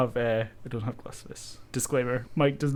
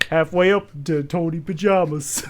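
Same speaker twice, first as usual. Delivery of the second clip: put-on Jersey accent; 4 semitones higher, 4 dB louder than usual. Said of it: "we do the Jersey accent".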